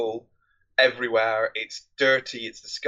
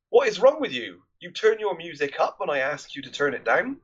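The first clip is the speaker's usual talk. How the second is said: mock angry neighbour; 5 semitones higher than usual. Angry neighbour's note quoted.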